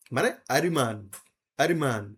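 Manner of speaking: আরিমান with a short i after r; Korean pronunciation. Shown as a demonstration. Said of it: "ওরা এভাবে বলবে আরিমান". (কোরিয়ানদের মতো আরিমান)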